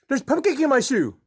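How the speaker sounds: put-on high little-kid voice, mispronouncing cupcake; toddler voice. Dad voicing his toddler son in the car. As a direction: squeak it like a three-year-old.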